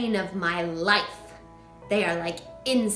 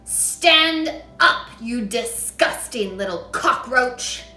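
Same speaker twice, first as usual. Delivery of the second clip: furious yell; 2 semitones higher, 9 dB louder, slower than usual. A narrator's reading. Trunchbull yelling at Matilda. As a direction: spit the insult out.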